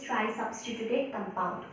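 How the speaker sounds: drawn out very slowly, word by word; slow emphasis. Shown as a demonstration. Teacher to students, stressing the term slowly. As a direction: lean on each word so students catch it.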